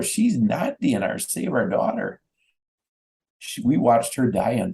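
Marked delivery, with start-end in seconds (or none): 0.0-2.2 mild retold holler, higher at first. Parents calling back to nurses over FaceTime, retold holler. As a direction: recount a desperate holler without really shouting. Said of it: "And we holler".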